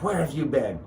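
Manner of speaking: lightly voiced scolding mom; mom's little voice. Mom demanding answers from her son on the phone, lightly imitated mom voice. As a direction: put on a hint of a worried mother's voice. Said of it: "I had that little voice in my mom".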